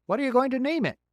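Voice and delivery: bright, folksy beaver. Acted.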